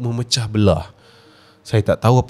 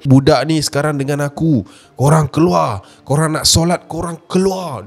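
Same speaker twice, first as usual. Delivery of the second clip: angry command. Retold or imitated. Possessed child ordering parents out, mildly angry command. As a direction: order them out, lightly acted. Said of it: "Dia marah macam tu".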